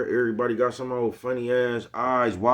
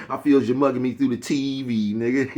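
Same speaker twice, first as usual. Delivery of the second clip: quoting Master P; 4 semitones higher, 4 dB louder than usual. Retold or imitated. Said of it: "Like Master P said".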